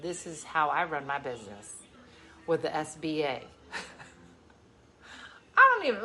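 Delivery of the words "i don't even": laughing. Real, not acted. Laughs at her own story.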